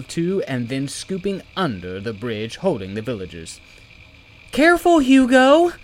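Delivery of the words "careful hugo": high calling voice, carrying across a gap. Acted. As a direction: call out a warning to a friend. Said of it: "she called".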